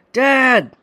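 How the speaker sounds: high, loud scream; frantic scream. A narrator's reading. Son hearing his father scream, frantic yell.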